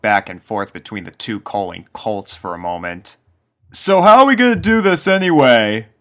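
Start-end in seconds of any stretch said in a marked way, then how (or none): 3.7-5.9 much higher, louder, lazy drawling colt; Snails drawling. A narrator's reading. Snails asks.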